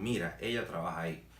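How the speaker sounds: "Mira, ella trabaja ahí" dicho llano, sin subir; entonación afirmativa. Shown as a demonstration. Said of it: "le estoy diciendo a alguien". ("ella trabaja ahí" como dato, cayendo al final)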